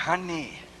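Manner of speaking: soft, sweet little "Honey."; a lightly voiced, contented "Honey."; pleased wife. The wife sweetly greeting her husband, softly. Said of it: "Cuando está contenta".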